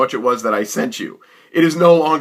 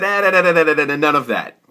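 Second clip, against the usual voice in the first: higher da-da-da brushing him off; dismissive cut-off; 4 semitones higher than usual. Retold or imitated. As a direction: wave away his excuses. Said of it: "and I said".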